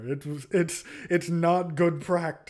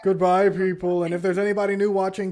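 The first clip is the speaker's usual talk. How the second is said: excited; 4 semitones higher, 7 dB louder, faster than usual. Real, not acted. Outro to the audience.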